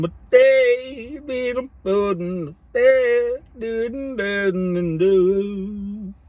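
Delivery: high, slow, loud movie-character voice; Step Brothers quote. Retold or imitated. Quoting Step Brothers to the camera in a high, loud comic voice. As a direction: belt out the movie line in a high put-on voice. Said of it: "That's Step Brothers".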